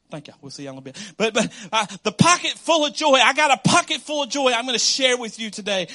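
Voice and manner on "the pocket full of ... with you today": louder, rising, preacher's excitement; excited proclamation. Real, not acted. Pastor promises the congregation a pocket full of joy, excited shout. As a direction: announce the joy like good news.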